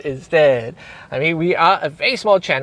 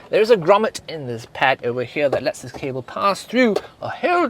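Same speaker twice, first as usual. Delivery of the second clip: lightly hammed-up British accent with lively swings in pitch; attempted British accent, playfully proper; put-on British accent. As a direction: give a car tour in your best British accent. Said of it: "in my best British accent".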